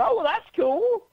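high, strained casual tone; mock nervous casual reply. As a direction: fake it cool while panicking. Retold own nervous reply.

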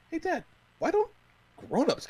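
lightly voiced child, pitched high; a hint of a kid piping up to dad; imitated son. Son asking dad about Santa's presents, lightly imitated child. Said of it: "Jack did ask me".

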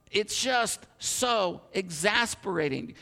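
slow, drawn-out exasperation; exasperated muttering to oneself, drawn out. Retold or imitated. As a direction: stretch each word in mild frustration. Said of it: "I'm so frustrated".

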